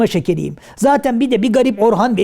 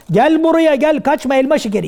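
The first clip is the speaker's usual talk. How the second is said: higher-pitched chasing call; calling after runaway; 4 semitones higher than usual. Acted. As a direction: order the runaway back. Kaçanı kovalarken bağırıyor. (kaçanın peşinden seslenme)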